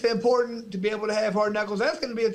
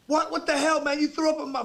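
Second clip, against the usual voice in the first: mock outrage; 7 semitones higher than usual. Acted quarrel over vomit in car.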